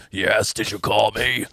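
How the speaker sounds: low, slow mock Carrie voice; deep drawn-out take on her; imitating Carrie. Friends mocking Carrie on the phone, low and slow. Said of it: "that's like how she sound".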